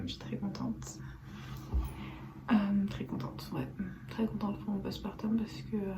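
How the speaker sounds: whispering. Real, not acted. Quiet talk, baby nearby.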